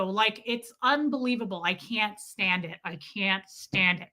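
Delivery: normal talking voice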